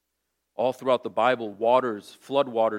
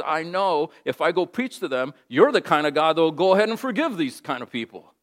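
rising angry protest, louder and higher toward the end; Jonah refusing; 6 semitones higher, 7 dB louder than usual. Retold or imitated. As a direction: build from grumbling to heated refusal. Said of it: "he says".

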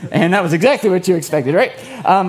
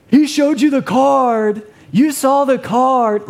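put-on kid yelling out; 7 semitones higher, much slower than usual. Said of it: "would yell out".

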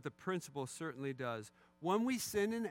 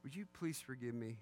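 measured, low-key plea for forgiveness; demonstrating a good-sounding apology; mock contrite apology; 3 semitones lower, 3 dB quieter, faster than usual. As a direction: ask forgiveness as if sincerely sorry. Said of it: "doesn't that sound good?".

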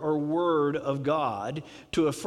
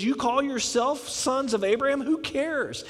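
higher, pointed confrontational retort; in-your-face challenge; 6 semitones higher than usual. Retold or imitated. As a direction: throw it right back in their face. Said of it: "He also got in their face".

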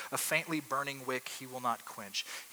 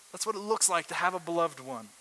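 ordinary talk

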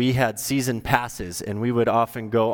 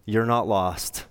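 tender God; 2 semitones lower than usual. Retold or imitated. God comforts the lost listener, gentle and reassuring. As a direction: soothe a lost child as God would. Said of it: "who says to us".

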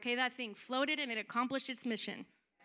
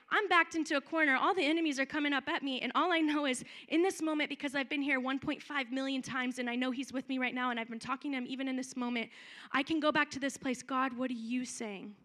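louder, urgent cry of trust; backed into a corner, crying out to God; faith under pressure; 4 dB louder than usual. Retold or imitated. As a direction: call out to God from the corner, raised voice. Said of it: "So faith is like".

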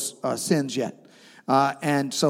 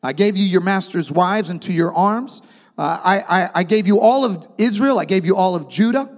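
prophet's rebuke; 3 semitones higher than usual. Retold or imitated. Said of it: "He says".

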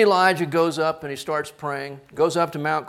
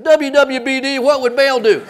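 amused reading; 6 semitones higher, 6 dB louder than usual. Acted. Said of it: "he looks at his bracelet".

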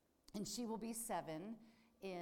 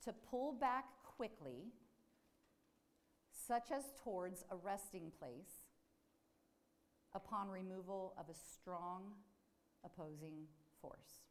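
slow repeated reading. Shown as a demonstration. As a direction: repeat the definition slowly, with long pauses. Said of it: "I'll say that again".

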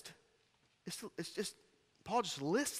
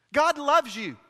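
loud and high, hammering it home; full-force preacher's cry; preaching shout; 8 semitones higher, 10 dB louder, slower than usual. Real, not acted. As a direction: shout it to the back row. Preacher repeats the line, now shouting.

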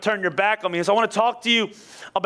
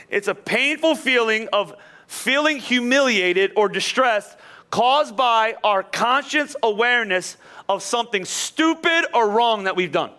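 slow reread; 3 semitones higher, slower than usual. Shown as a demonstration. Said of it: "I wanna read it to you again".

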